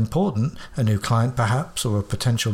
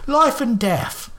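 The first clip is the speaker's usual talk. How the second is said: put-on much higher, very slow old man croak; vehement croak; 11 semitones higher, 3 dB louder, much slower than usual. Old man stressing the urgency to Watson, croaking slowly. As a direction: drag out each word gravely. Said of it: "he croaked out with vehemence".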